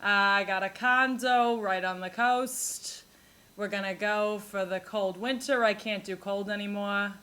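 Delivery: light imitation of a Long Island grandma; a hint of a chatty Long Island grandmother. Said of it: "They're like".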